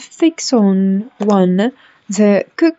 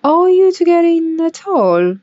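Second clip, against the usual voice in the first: footman voice; 9 semitones higher, 4 dB louder than usual. Acted.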